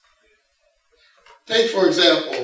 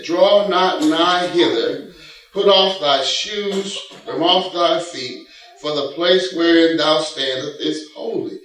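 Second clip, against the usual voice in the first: a lightly voiced God, slow and solemn; slow, weighty command from God; 3 semitones higher, slower than usual. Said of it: "And he said".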